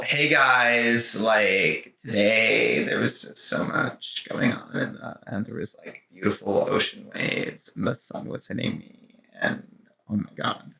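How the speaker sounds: put-on slow, soft, breathy valley-girl drawl; dreamy California girl, fading to a whisper. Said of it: "like, California girl".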